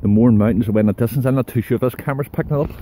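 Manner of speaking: breathless uphill talk; winded, puffing between words; heavy breathing. Real, not acted. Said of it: "Sorry about the heavy breathing".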